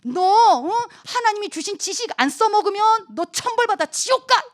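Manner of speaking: high, loud mock threat, climbing at the end; bully a timid friend into it; threatening. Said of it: "친구들이 또 협박하는 거죠".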